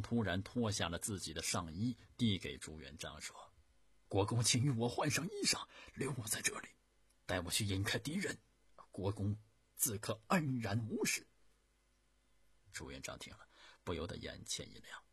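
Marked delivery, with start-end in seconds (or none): 4.1-11.3 earnest loyal guard. Acted. Loyal guard offering to die.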